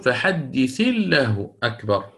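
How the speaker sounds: فحدث الله أكبر slowly recited, الثاء joined to الله; slow recitation. Shown as a demonstration. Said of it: "فتقول". (ترتيل بطيء: فحدث الله أكبر)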